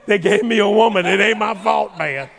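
put-on high, loud boyish excitement; excited teenager. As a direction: brag to your dad, thrilled.

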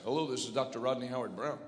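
light South African accent impression. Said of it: "in a South African accent".

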